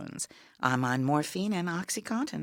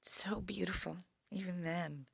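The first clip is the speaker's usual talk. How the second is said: soft whisper, tender; whispered admiration; 11 dB quieter than usual. Real, not acted. Woman admires her sister's old photo, whispered. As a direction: breathe it out over the photo.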